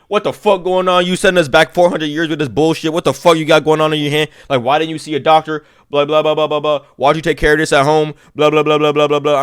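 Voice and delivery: high, loud mock scolding; mock angry rant. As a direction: tear into the patient loudly. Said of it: "starts going off on me".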